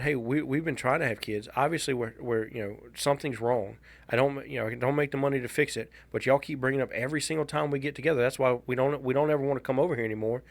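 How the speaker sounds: fast, heated complaint to her parents; venting at her mother about the constant nagging; retold angry outburst. Mildly heated telling-off of his mom. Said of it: "it was a very, very rough conversation".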